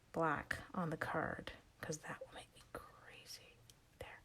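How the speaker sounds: slow, breathy whisper to herself. Real, not acted. Crafter fretting over the card, whispering. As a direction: whisper it under your breath, slowing down.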